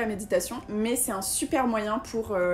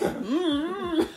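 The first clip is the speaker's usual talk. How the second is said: cartoon voice; 6 semitones higher than usual. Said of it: "voix de dessin animé".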